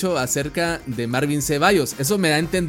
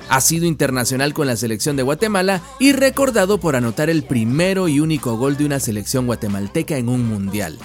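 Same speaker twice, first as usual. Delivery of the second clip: podcast announcer voice; 3 dB louder than usual. Acted. Podcast host intro over music.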